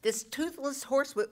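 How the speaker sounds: ordinary talk, nothing marked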